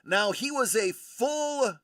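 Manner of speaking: corny punchline setup; deadpan pun delivery; telling a dad joke. Acted. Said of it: "Thanks, folks. I'll be here all week".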